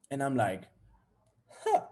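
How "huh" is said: low, quiet smug boast; drawn-out, self-satisfied murmur; proud. Acted. Boyfriend about his girlfriend, quietly proud. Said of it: "then I started to get proud".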